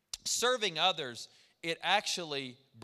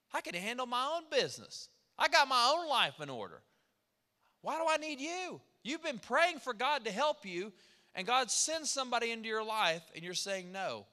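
a hint of a stubborn, proud voice, higher; proud refusal; 5 semitones higher than usual. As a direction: brush off the helper, too proud to accept. Voicing a proud person refusing help.

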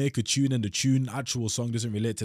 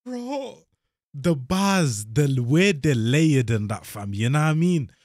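hyped up; 3 semitones higher, 8 dB louder, slower than usual. Real, not acted. Hyped reaction to rap bars.

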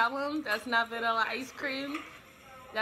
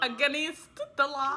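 whisper. Retold or imitated. Echoing the whispered warning in a whisper. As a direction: repeat it in an unvoiced whisper.

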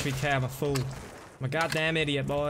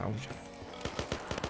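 slow, drawn-out whisper; 9 semitones lower, 13 dB quieter, much slower than usual. Shown as a demonstration. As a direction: breathe it out slowly as a whisper.

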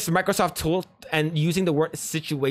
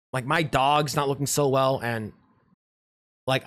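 low, weary role-play with sighs; glum, lower-pitched tale of woe; acted dejection; 5 semitones lower than usual. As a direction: play someone down on their luck, halting and sighing. Acting a man pouring out his troubles.

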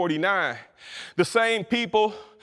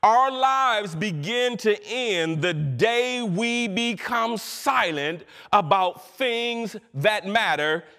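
tag; 2 semitones higher, much slower than usual. Real, not acted. Reads a quotation solemnly.

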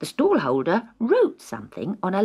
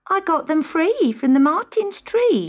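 voiced mother; 10 semitones higher, 4 dB louder than usual. A narrator's reading. Mrs White proudly showing shoes.

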